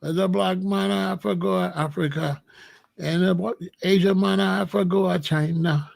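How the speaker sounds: rhythmic Jamaican patois toast; Jamaican deejay toasting. Retold or imitated. Replaying his recorded toast for listeners, Jamaican deejay chant. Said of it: "I hear me in their car".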